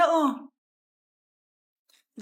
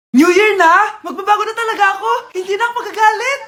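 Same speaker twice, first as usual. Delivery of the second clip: loud vow; 3 semitones higher, 3 dB louder than usual. Acted. New Year resolution, shouting.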